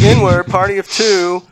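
hammed-up restaurant host; host calling a reservation. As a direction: announce the party like a host. Host calls out restaurant booking.

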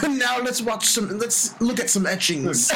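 unhurried mock British gentleman accent; mock posh British accent. Invites friends to view etchings, in a mock posh British accent. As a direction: propose it like a stuffy British gent. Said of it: "I've talked like this my whole".

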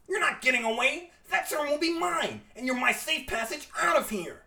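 lightly voiced supervillain gloating; a hint of villain menace; megalomaniac rant. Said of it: "sounding like a supervillain himself".

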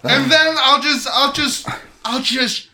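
high, laughing fake threat; hammed-up taunt; mock threat.

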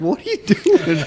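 amused mock alarm; mock alarmed shout. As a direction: call out at her, half-laughing. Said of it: "It's like".

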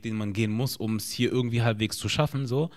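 ordinary delivery

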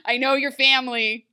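lightly hammed-up outrage; mock indignant queen. Regina scolding the guard Derek, mock offended. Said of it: "She's like".

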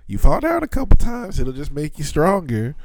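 high, loud mock drill sergeant; mock tough coach. Friend jokes about toughening up his baby daughter, mock coach voice. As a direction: bark it like a joking tough-love coach.

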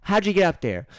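high mom voice breaking into laughs; laughing mom. Pretend. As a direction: mom laughing while she scolds.

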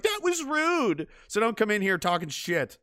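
high, slow prissy complaint; a touch of mock offense; mock timid scold; meek protest. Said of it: "And you'll be like".

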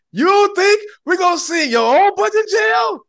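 high, loud hammed-up shout; mock shout. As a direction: yell it like an outraged judge making a point. Mimics court making a point.

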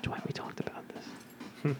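slow, whispered ASMR-style impression; Toby. Echoing Toby telling off Dwight, in a slow ASMR whisper. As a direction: whisper it very slowly, barely any volume. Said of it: "your A S M R voice".

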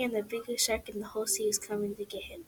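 whispered, hushed suspense. Acted. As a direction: breathe it like a scary secret. Suspenseful narration, unvoiced.

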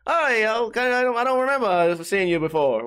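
badly faked British accent; attempted UK accent. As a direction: have a half-hearted go at a UK accent. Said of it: "he had a U K accent".

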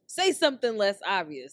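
said out loud, emphatic; now say it plainly for all. Real, not acted.

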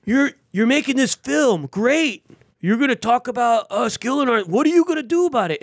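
sarcastic veteran. Retold or imitated. Angry veteran challenging the host over his film, mimicked high and scornful. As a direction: sneer "great" like a bitter vet. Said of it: "he was kinda sarcastic".

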